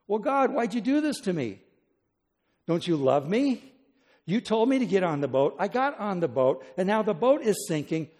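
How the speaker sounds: hurt, protesting cry of why; accusing plea to God. Acted. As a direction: plead your case, wounded and baffled. Acted complaint to God.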